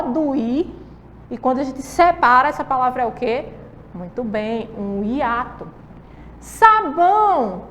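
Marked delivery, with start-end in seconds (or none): 6.4-7.6 "Sabão" drawn out slowly, sa-bão; slow syllable split. Shown as a demonstration. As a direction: stretch "Sabão" into two slow beats. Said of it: "Olha só".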